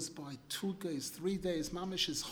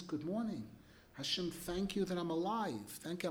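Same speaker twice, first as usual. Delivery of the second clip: softer, grateful, humble; humble thanks; 4 dB quieter than usual. Shown as a demonstration. Person opens prayer to Hashem with soft, humble thanks. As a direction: thank him quietly, meaning it. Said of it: "the first thing to say to Hashem is".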